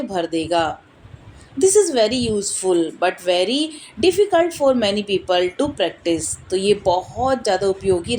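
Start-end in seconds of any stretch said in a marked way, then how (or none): 1.6-6.5 slow, measured read-aloud; book reading. Acted. Reading a meditation book aloud to viewers, slow and measured. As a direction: read it out slowly, phrase by phrase.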